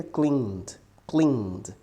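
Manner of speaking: "cleaned" as one syllable, drawn out; silent E. Shown as a demonstration. Teacher models the past of clean for students, silent E. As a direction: say "cleaned" slowly as "kleend", E silent. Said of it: "Essa letra E aqui a gente não pode pronunciar".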